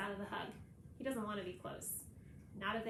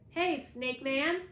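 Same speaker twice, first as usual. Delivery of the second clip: slow, louder creepy croak; creepy croaky voice; 5 semitones higher, 9 dB louder, much slower than usual. A narrator's reading. Toby teasing his friend on the phone in a slow creepy croak. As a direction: draw it out like a spooky lizard creature. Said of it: "Toby is talking in a creepy, croaky voice".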